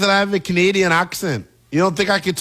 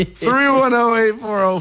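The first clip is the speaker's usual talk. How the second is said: number read through a laugh; 5 semitones higher than usual. Real, not acted. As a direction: read it while still laughing. Reads number still laughing.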